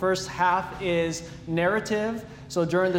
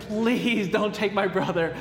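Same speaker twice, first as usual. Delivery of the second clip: begging; 2 semitones higher than usual. Retold or imitated. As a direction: beg him not to take your brother, half mock-desperate. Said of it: "And I begged him".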